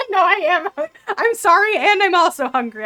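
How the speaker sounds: high, loud insistence through laughter; laughing protest. Real, not acted. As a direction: protest your apology while cracking up. Laughing protest to teasing players.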